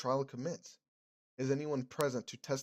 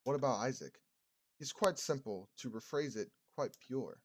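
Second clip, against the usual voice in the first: reverend's calm questioning. Acted. Streamer voices the reverend.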